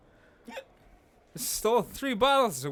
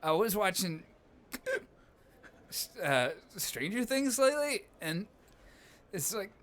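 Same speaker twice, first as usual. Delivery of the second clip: playing drunk and hiccuping; tipsy voice with hiccups. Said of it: "No, I'm hiccuping 'cause I'm drunk".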